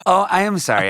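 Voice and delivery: put-on high, sweet voice of a small girl; sweet little girl voice. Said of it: "she's like".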